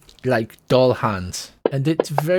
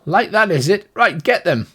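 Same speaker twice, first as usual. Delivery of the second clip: doll turning nasty; 6 semitones higher, 3 dB louder than usual. A narrator's reading. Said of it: "says the doll".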